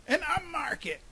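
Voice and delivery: high-pitched exclamation; excited insistence. A narrator's reading. Groundhog to the grumpy investor, excited insistence. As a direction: push the good news on a doubter.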